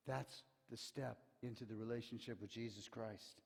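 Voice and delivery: usual speaking voice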